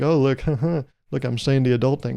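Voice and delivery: mock-grown-up aside with a small chuckle; tongue-in-cheek. Shown as a demonstration. Showing off the adult thing, tongue-in-cheek. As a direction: play lightly at talking like an adult. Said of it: "I say it in this tone".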